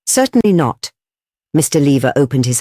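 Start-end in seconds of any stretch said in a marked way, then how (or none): 0.1-0.9 higher, affronted denial; indignant. A narrator's reading. Chairman denies knowing a waiter, indignant. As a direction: reject the very idea. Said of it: "answered Mister Audley indignantly".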